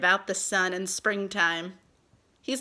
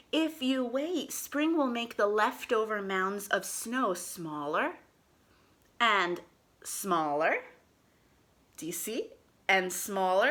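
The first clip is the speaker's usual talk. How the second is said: slow storybook reading aloud; reading to children; slower than usual. Acted. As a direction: read it slowly to little kids.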